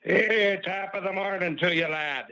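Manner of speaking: a playful hint of an Irish accent as a greeting; Irish brogue. Caller greeting the host in a light mock Irish brogue. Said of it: "trying to do a little brogue".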